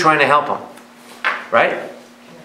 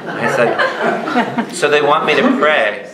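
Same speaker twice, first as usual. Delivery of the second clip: laughing while telling; slower than usual. Real, not acted.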